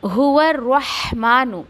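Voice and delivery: slow careful demo of हुआ रहमानु; tajweed demo. Shown as a demonstration. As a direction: stretch हुआ रहमानु with a light breathy रह. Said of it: "ये शुरू में मैं आपको बता चुकी हूँ".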